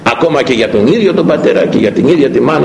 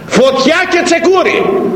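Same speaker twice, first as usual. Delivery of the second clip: prophet's doom warning; slower than usual. Acted.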